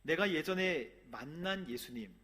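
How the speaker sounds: ordinary talk, nothing marked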